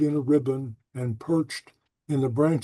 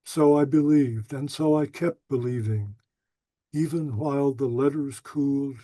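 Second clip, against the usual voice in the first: tender, unhurried recitation; poem reading. Acted. Poet reading his poem about old love letters, tender and unhurried. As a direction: linger wistfully over the lost letters.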